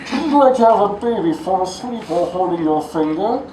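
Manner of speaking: loom over the words like Bane. Pretend. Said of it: "if I can do Bane right now".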